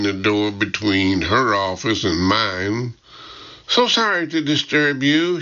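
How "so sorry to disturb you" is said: lightly voiced British secretary, pitched higher; a hint of officious apology, not really sorry; higher-pitched secretary's token apology, lightly British. A narrator's reading. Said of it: "my officious British secretary".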